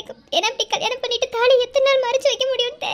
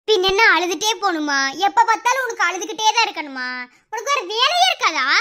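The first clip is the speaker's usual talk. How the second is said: irritated retort; 4 dB louder than usual. Acted. Sisters snapping back in quarrel.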